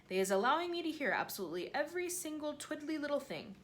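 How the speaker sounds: the giant showing off his ears; lightly voiced proud giant; proud BFG. BFG boasting about his ears.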